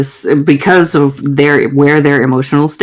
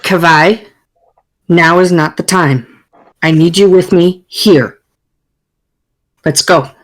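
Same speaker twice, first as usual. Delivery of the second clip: firm, controlled commander; brooking no argument. Acted. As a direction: shut down the protest evenly and firmly. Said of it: "her tone and her whole body language".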